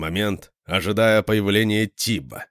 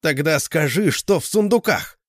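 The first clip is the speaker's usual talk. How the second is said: loud, high challenging shout; exclaiming; 8 semitones higher, 4 dB louder than usual. A narrator's reading. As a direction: fling the demand at him. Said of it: "воскликнул я".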